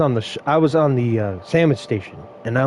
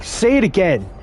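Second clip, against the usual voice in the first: confrontational demand; 6 semitones higher than usual. Retold or imitated. Confronting rude driver.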